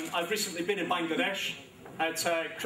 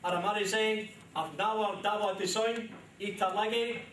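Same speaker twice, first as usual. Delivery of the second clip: Sylheti with Cockney accent; 3 semitones higher than usual. Real, not acted. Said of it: "with my classic Cockney accent".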